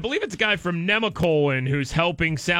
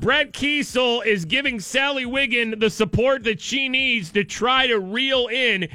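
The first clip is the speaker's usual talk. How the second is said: earnest, slightly raised play-by-play; mock sports commentary; 4 semitones higher than usual. Host narrates angler fighting a fish, mock play-by-play. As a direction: call a fishing trip like live sport.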